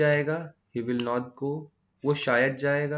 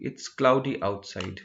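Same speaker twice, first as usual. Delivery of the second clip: slow example sentence; 2 semitones lower, much slower than usual. Shown as a demonstration. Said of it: "इसके लिए क्या बोलेंगे हम".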